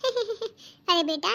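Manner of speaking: slow nervous laugh into the words. Acted. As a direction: laugh off the question. Mother-in-law laughs it off.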